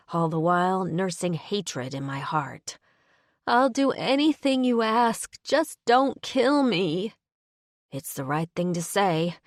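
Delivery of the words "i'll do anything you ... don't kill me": desperate begging. Pretend. Begging captor for her life.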